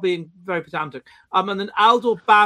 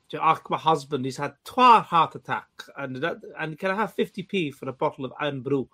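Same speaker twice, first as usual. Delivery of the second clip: lower-pitched Northern Scots impression; Northern Scots accent; 4 semitones lower than usual. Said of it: "that accent".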